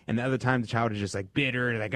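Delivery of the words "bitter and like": ordinary delivery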